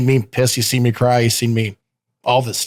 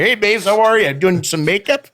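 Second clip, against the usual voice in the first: playful flirty chirp, higher; flirty greeting; 8 semitones higher than usual.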